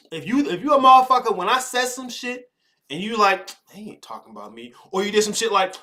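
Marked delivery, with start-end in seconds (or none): 3.7-4.7 mock denial. Mocking someone in denial.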